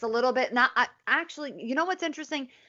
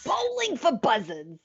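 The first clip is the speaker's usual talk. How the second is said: a lightly voiced cartoon character line; movie character impression; 3 semitones higher than usual. A hint of the Lion King character, quoted for her cohost. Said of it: "You do a better accent".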